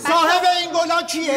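کمی بلندتر و طلبکارانه; سؤال را با اصرار تکرار کن; تکرار پرسش با اصرار. Acted. دعوای تلفنی در گلخانه. (تکرار طلبکارانه پرسش)

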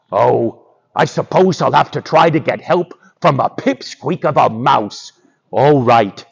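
grudging lion, sinking in pitch; a touch of grumpy lion giving in; reluctant lion. Acted.

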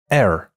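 slow demo of the mistaken air; wrong air sound. Shown as a demonstration. Teacher shows a common learner mistake. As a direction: air said slowly with the wrong start vowel. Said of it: "不要把其中的a读成咱们中文普通话的爱".

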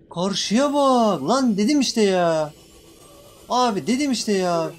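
loud, slow alarmed pleading; frightened, drawing the words out; panicked. Real, not acted. Panicking at monster appearing.

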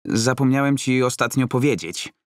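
bursting to share news; Roman, eager. Acted.

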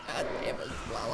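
whispered curse. Real, not acted. Muttered curse after loss.

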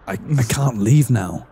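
put-on lightly British accented line. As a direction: try the British accent again. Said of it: "You're doing it".

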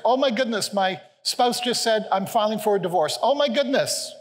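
play-acted worried exclamations; mock panic. Acts out panicked reactions to trouble.

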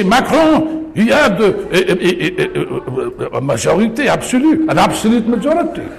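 put-on a lightly French-accented English, said with a chuckle. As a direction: mimic a French speaker's English, half-laughing. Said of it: "Excuse my accent".

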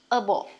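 Able said uh-bl, weak first vowel; ending able as uh-bl. Shown as a demonstration. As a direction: Able with a schwa, not a full ay. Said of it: "mình không đọc là able hay là able".

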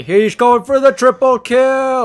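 panicked shouting, pitch rising; panicking gamer. Real, not acted. Killer chasing, panicked shouting.

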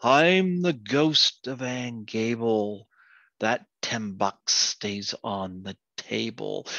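slow, drawn-out lightly voiced ghost. Ghost warning a man off the money, slow intoning. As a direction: intone it slowly like a mild spook. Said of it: "he hears this voice saying".

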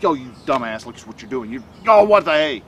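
mock inner bully berating you; mock belittling. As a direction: scold yourself in a hammed-up sneer. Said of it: "you don't have to belittle yourself".

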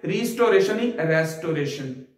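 रिस्टोरेशन with "ri" set against रेस्टोरेशन with "re"; wrong then right. Shown as a demonstration. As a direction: contrast रिस्टोरेशन with the correct रेस्टोरेशन. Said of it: "रिस्टोरेशन कभी नहीं पढ़ेंगे". (गलत और सही उच्चारण)

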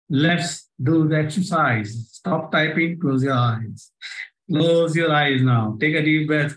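slow, measured hypnotic questioning; guided hypnosis. Acted. Hypnotist asking the audience to silently repeat questions, slow and measured. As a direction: lead them inward, each question repeated slowly.

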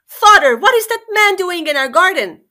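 high, loud alarmed scream; a princess screaming at the sight of a stranger. A narrator's reading. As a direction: shriek it out at her father in alarm. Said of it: "and she screamed".

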